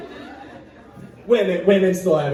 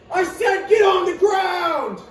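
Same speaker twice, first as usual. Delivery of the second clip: robber's shout; 9 semitones higher than usual. Pretend. Robber repeating his order to the hostage, mock yell. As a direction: yell the order again, angrier.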